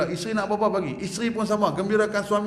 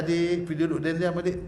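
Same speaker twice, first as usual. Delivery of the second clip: gentle telling off. Shown as a demonstration. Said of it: "Tegur dia elok-elok".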